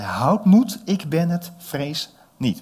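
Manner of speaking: Jesus speaking. Acted. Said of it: "sprak de Heer Jezus ze aan".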